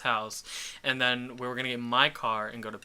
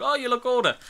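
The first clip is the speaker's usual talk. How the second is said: guy's voice; 11 semitones higher, faster than usual. Retold or imitated. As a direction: play the impressed guy. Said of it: "He's like".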